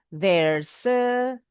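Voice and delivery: "There's a" joined as one word; linked words. Shown as a demonstration. Teacher repeats for students, "There's a" linked without a break. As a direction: slide from "There's" straight into "a".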